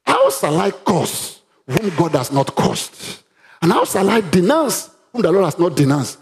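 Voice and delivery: slow, solemn diviner speaking; a hint of the seer's voice; slow oracle voice. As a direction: draw the words out like a prophecy. Reads oracle in held voice.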